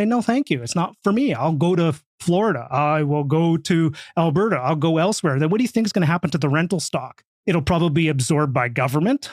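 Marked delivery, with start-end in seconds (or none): none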